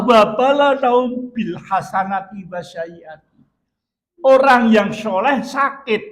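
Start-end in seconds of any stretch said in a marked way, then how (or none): 0.0-3.4 drawn-out reverent chant of the verse; slow Quranic recitation. Acted. Preacher quoting the verse to the congregation, slow and reverent. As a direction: recite it slowly, like scripture. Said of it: "Jadi kata Allah".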